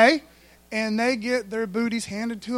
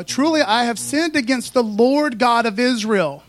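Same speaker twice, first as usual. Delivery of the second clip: a touch of an acted confession, a little louder; Achan's confession; 4 dB louder than usual. Achan confesses to Joshua, lightly acted and earnest. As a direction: voice Achan owning up, lightly dramatized. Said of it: "And Achan answered Joshua".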